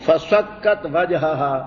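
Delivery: slow measured recitation of the verse; Quran recitation. Shown as a demonstration. Teacher reciting the verse to his students, slow measured recitation. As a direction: draw the Arabic out, reciting.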